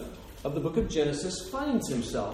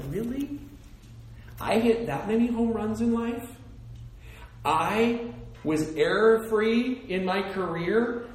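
mock disbelief; 5 semitones higher than usual. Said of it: "I'm like".

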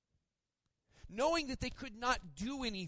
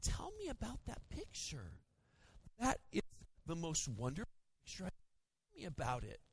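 much softer, higher, coaxing mother-in-law; sweet grandma voice; 4 semitones higher, 8 dB quieter than usual. Retold or imitated. Mother-in-law coaxing a child to explain the picture, soft and high. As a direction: coo gently like a kindergarten teacher. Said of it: "She'll go".

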